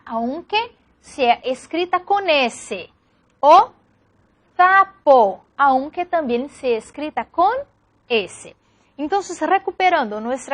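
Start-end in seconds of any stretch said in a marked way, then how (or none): 4.6-5.4 "sapo" said "thapo" with a th instead of s; ceceo. Shown as a demonstration. Teacher demonstrates the ceceo lisp on "sapo". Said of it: "el ceseo sería pronunciar".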